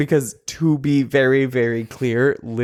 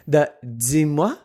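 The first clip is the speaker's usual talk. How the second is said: bad French accent. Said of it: "a bad French accent".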